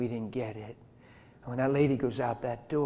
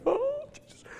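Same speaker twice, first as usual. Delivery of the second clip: much higher, breathy devotional sigh; much higher mock swoon; swooning prayer lady. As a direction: imitate a lady melting at his name.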